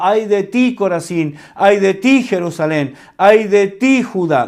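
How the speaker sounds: mock prophetic curses, rising; proclaimed woes. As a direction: cry woe on each city. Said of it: "Isaías no está hablando".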